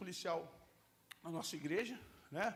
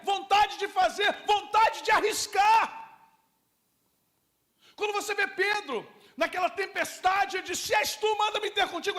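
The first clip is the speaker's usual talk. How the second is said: full-force preaching; 11 semitones higher, 15 dB louder than usual. Acted. Pastor preaching to the congregation about impetuosity, full-force shouting. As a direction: preach it at the top of your lungs.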